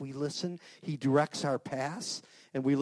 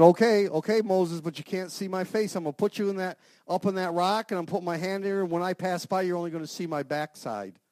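louder, higher booming answer; voice of God; 4 semitones higher, 7 dB louder than usual. Acted. Preacher voicing God answering Moses, loud and higher. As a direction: speak as God calming Moses.

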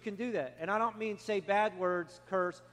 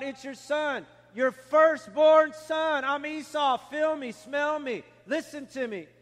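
higher-pitched, insistent retold plea; urgent insistence; 4 semitones higher, 5 dB louder than usual. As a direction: insist on who you are, drawing out key words. Esau insists to his blind father.

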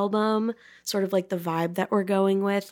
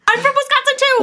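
much higher, louder playful voice; mock high voice; 9 dB louder, faster than usual. Host joking along in a high squeal. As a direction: squeal it like a giddy fan.

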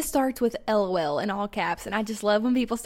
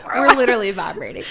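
over-caffeinated; 5 dB louder, faster than usual. Real, not acted. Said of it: "I've had so much coffee".

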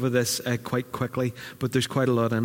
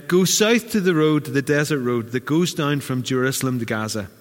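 angel voice. Acted. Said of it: "could you do an angel's voice".

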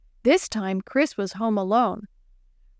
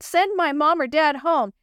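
pleading out loud; 6 semitones higher than usual. Acted. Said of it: "Chris cried out loud".

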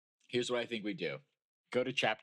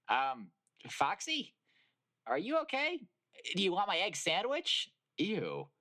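high chicken voice breaking into laughter; laughing chicken voice; 13 semitones higher, 6 dB louder, slower than usual. Acted. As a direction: squeak it while cracking up.

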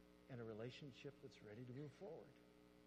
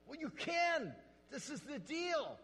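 much higher, louder put-on voice; mock answer; 13 semitones higher, 11 dB louder, slower than usual. Pastor answers the guys in a high, loud mock voice. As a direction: toss it back in a squeaky mock voice.

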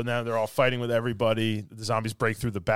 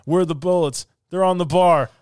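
imitated panic; 5 semitones higher, 8 dB louder than usual. Acted panic behind burning bar.

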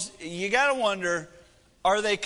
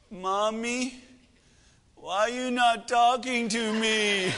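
put-on plaintive little girl; 3 semitones higher, slower than usual. Daughter asks mom over FaceTime.

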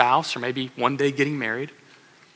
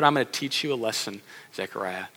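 softer, hushed divine rebuke; God teaching a lesson; 5 semitones lower, 8 dB quieter than usual. Retold or imitated. Preacher voicing God silencing Zechariah, hushed and firm. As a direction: drop it to a quiet, firm hush. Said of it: "He says".

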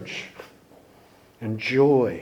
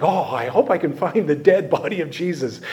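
mock hopeful. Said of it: "As if that would be good news".

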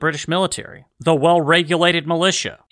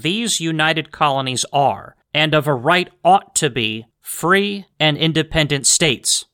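solemn recitation; slower than usual. Retold or imitated. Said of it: "it says something to the effect of".

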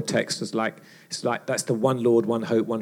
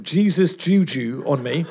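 laughing; 3 semitones higher, 5 dB louder than usual. Retold or imitated. Teammate tells gang, laughing.

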